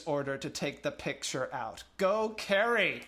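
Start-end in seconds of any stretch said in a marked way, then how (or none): 2.0-3.0 high, slow cheer. Real, not acted. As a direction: cheer her on. Cheering the student director.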